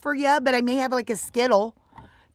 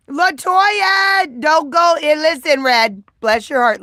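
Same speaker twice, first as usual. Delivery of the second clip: calling out; 4 semitones higher, 5 dB louder, slower than usual. Real, not acted. Calling a viewer to listen.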